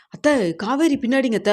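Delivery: blurting it out in disbelief; lightly voiced shocked husband. Sees wife he thought dead.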